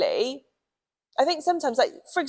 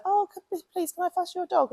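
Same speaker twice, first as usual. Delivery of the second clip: eager stranger pleading; 10 semitones higher than usual. Retold or imitated. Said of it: "and they're like".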